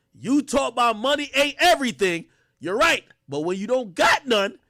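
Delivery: mock tough dad; hyped father reread. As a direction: deliver it like the father laying down the law. Rereading the line.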